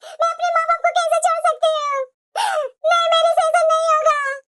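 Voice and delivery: distressed, drawn-out plea with rising pitch; tearful protest. Acted. Wife refusing husband's demand to leave her parents, tearful protest. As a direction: plead through tears, dragging the opening words. Wife pleads against forced choice.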